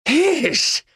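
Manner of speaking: high, scornful exclamation; mocking cackle. Criminal mocking the major, high scornful laugh. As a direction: sneer it up high. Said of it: "захохотал преступник".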